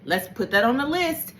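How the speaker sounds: mock stern self-talk, calming down into breathe; self-scolding. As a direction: talk yourself down like a firm auntie. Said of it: "And it's like".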